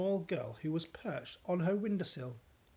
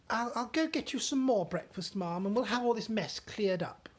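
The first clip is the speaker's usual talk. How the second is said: higher, earnest servant; maid voice; 6 semitones higher, 4 dB louder than usual. Acted. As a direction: press the point gently.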